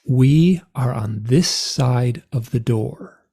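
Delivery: measured, deliberate declaration; calm, certain pronouncement retold from hypnosis; clear as a bell. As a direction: state each sentence distinctly, with pauses between. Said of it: "I say it clear as a bell".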